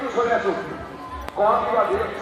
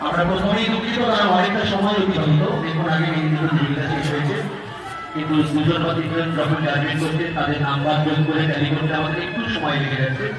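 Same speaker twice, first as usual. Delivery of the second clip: announcing over a PA system; echoing festival loudspeaker. Real, not acted. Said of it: "আমি বারবার মাইকে ঘোষণা করছি".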